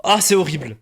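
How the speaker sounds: high, drawn-out wail of dismay; horrified groan. Real, not acted. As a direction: wail in horror at how you sounded. Horrified at own accent.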